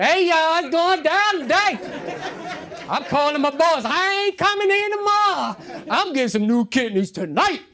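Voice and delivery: high, loud excited post; loud hyped-up bragging; hyped announcement. Retold or imitated. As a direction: shout the news like a big party. Excited Facebook post quoted.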